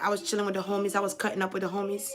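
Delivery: fast, casual homie talk, lightly put on; imitating his talk. Medium voicing the late rapper, quick casual homie chatter. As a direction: rattle it off quick like you're kicking it with the homies. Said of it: "I don't know if that's how he talks".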